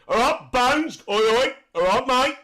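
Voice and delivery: high, loud mock English accent. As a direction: greet someone in a put-on English accent. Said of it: "I like the English accent".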